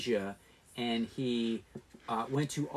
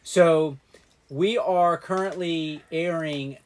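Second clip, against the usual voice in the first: robot voice. Real, not acted. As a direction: talk like a stiff robot. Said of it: "Why are you talking like a robot?".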